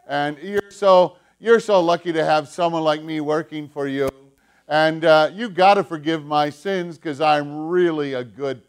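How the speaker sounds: preen like a priest impressed with himself; smug boasting. Acted. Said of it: "His nose was kind of up in the air".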